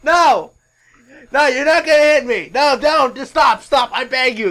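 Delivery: loud, high, panicked begging; Ric Flair. Acted. Flair begging Conan not to hit him, panicked pleading. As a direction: plead at the top of your voice. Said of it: "begging his ass off".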